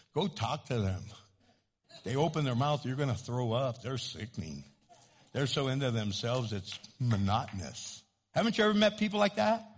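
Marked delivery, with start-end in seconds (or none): 0.1-8.0 much softer, low confiding tone; hushed warning. Retold or imitated. A friend quietly warning about a vain stranger, hushed. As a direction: warn them quietly, under your breath.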